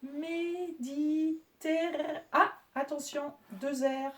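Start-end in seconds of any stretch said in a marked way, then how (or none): 0.0-2.2 "Méditerr-" drawn out very slowly, cut before the double R; syllable split. Shown as a demonstration. Teacher showing pupils where "Méditerr-" splits, slow. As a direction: stretch "Méditerr-" and break off at the syllable. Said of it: "la syllabe sera coupée en deux ici".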